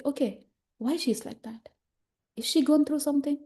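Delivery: gently questioning, lifting at the end; curious wondering. Acted. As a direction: wonder what she has been through. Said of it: "Just say".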